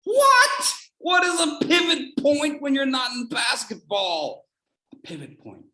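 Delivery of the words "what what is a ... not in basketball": high, loud incredulous shout; hammed-up disbelief, much higher and louder; mock outburst. Feigning a baffled listener, loud incredulous shout.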